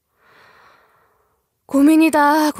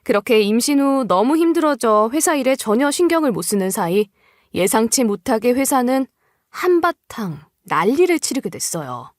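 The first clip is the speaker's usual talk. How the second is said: plain reading voice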